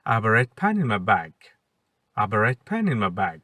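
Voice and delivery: slow, evenly stressed "I have a red pen in my bag"; wrong translation-style reading; every word stressed. Shown as a demonstration. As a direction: give each word the same weight. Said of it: "সব শব্দগুলোকে গুরুত্ব দিয়ে উচ্চারণ করা যাবে না".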